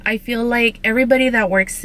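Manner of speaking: talking around tooth brackets; speaking with new braces. Real, not acted. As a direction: finger touching front teeth. Seen 1: Points at teeth; brackets faintly visible when teeth show.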